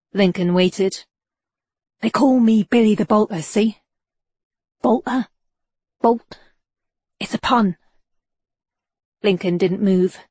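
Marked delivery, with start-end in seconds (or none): 2.0-7.8 a hint of a cocky street rogue, pleased with his pun; cheeky petty crook, lightly done; lightly voiced London informant. A narrator's reading. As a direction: play the sly informant, slightly higher.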